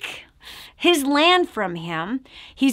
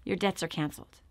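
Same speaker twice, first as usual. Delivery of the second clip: lower, softer royal forgiveness; king's pardon; 5 semitones lower, 8 dB quieter, faster than usual. Retold or imitated. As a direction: grant mercy gently like a king. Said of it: "So the king says".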